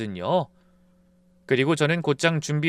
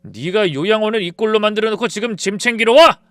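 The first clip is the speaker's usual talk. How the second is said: loud, angry accusation; husband yelling at his wife; shouting; 5 semitones higher, 7 dB louder than usual. Retold or imitated. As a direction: shout the blame at her. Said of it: "큰 소리를 치더군요".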